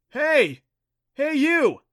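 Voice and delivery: high, loud call from afar. A narrator's reading. New girl calling to them across the cavern, loud. Stranger calls from far entrance.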